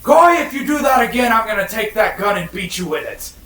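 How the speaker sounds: loud, high angry holler. Acted. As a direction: yell the threat across the deck. Player hollers back at Coy.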